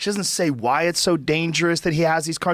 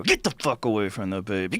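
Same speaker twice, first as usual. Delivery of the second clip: female hyena voice; 6 semitones lower, 3 dB quieter than usual. Retold or imitated. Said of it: "the female has to go".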